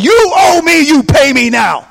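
shouted, high-pitched demand for payment; angry demand. Acted. Creditor grabs debtor by the neck, shouting angrily. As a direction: yell it like a furious creditor. Choking someone over a debt.

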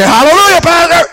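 very high, joyful hallelujah pastor; hallelujah shout. Retold or imitated. A joyful congregant praising the pastor, very high excited cry. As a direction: cry it out like a happy churchgoer. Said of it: "you would say".

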